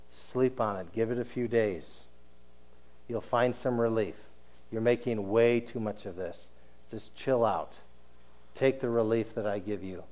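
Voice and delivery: soft, hushed coaxing in his ear; tempting whisper. Retold or imitated. Satan coaxing Joseph to wait, hushed and soft. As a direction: lull him softly like a tempter. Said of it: "Satan whispers in his ear again".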